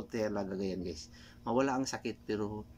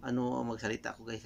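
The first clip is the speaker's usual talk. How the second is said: speaking through a numb mouth after dental anesthesia. Real, not acted. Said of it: "kasi namanhid yung".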